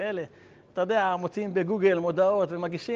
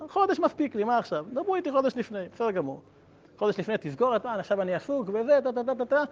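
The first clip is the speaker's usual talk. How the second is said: lightly acted brush-off, pitched up; mock nonchalance; 5 semitones higher than usual. Second rabbi putting off his preparation, mock nonchalance. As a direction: wave it away like a carefree procrastinator.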